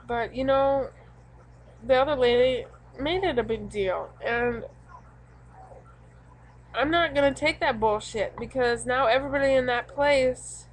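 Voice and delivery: venting hot about the coworker who made it a big deal; heated rant. Real, not acted. Ranting about the other lady.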